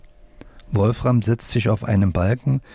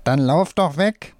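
puppet shout; 5 semitones higher than usual. A narrator's reading. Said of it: "die rechte Hand schreit".

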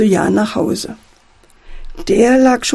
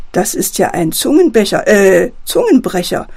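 ordinary delivery, nothing marked

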